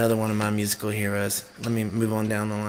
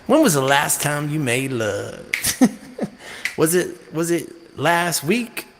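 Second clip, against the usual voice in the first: singer's spoken line; 4 semitones higher, 4 dB louder than usual. Retold or imitated. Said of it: "He's like".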